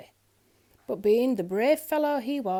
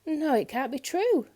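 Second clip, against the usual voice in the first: shocked disbelief; 6 semitones higher, 4 dB louder than usual. A narrator's reading. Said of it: "said the crowd altogether".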